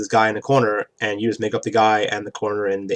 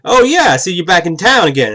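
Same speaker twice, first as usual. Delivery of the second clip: higher, louder mock gangster greeting; Fat Tony voice; 7 semitones higher, 6 dB louder than usual. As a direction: greet him like a lightly menacing boss. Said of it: "the D M starts voicing Fat Tony".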